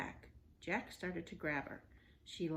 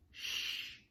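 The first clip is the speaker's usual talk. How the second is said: shushing. Acted. Hushing Annie.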